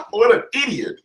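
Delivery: a quick scornful whisper; whispered aside. Real, not acted. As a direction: whisper it under your breath, mocking. Mocking aside about the lawyer.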